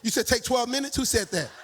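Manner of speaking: rising, doubtful ask on twelve; puzzled question to the congregation; surprised question. Real, not acted. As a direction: check the time in disbelief. Questioning the time given.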